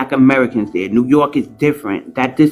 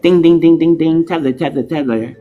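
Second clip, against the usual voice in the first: imitated alarm chime; 3 semitones higher than usual. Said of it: "my alarm said".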